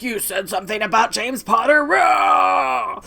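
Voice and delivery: mock a hothead snapping; mock angry outburst. Harry snapping at Black over James, a hammed-up furious yell. Harry mocked as hot-headed.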